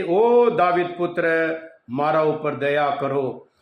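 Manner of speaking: long opening O, slowing into a plea; imitated calling out. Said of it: "એ વધારે બૂમબાડે છે".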